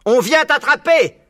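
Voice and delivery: cri aigu, fort et lent; vociférant. A narrator's reading. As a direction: interpeller le renard de loin en criant. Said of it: "vociférait Buns". (Buns vocifère depuis son engin, très fort)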